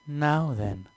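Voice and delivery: lightly voiced demon lady making an entrance; succubus voice. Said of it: "the succubus declares".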